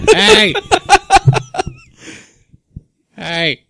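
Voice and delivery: calling out. Pretend. Ghost calling out ignored.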